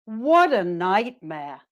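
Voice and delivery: slow "What a nightmare" settling downward; negative reaction intonation. Shown as a demonstration. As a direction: draw out "nightmare" and let it fall. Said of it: "their voice stays neutral".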